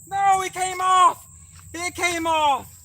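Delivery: slow, high, crushed groan; disappointed. Real, not acted. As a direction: let it sink in slowly, deflated. Fish lost during fight.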